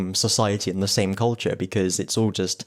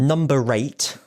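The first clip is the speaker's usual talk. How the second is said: rising sing-song number call; bingo caller; 4 semitones higher, slower than usual. Shown as a demonstration. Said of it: "I'm, like, doing bingo calling".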